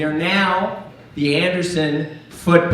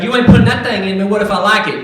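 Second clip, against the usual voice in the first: hillbilly refusal; 4 semitones higher, 8 dB louder, faster than usual. Retold or imitated. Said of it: "He's like".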